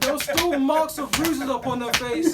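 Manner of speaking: loud, slow, tearful preaching cry; weeping climax. Real, not acted. Preacher wailing to the gathering over the child's wounds, tearful and loud. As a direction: let the voice break into crying as it climbs.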